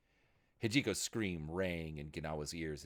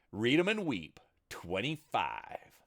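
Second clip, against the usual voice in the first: gloating high triumph; triumphant; 6 semitones higher, 7 dB louder, slower than usual. A narrator's reading. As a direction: gloat over the roll. Triumphant roll.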